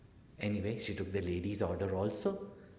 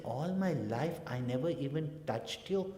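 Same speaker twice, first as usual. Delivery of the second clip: hurt mother; 5 semitones higher than usual. Acted. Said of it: "She said".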